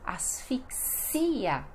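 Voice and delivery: "Asfixia" slowly, as-fik-SI-a; stress on IA. Shown as a demonstration. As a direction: break up "Asfixia", long stressed IA. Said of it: "o mais forte é o ia".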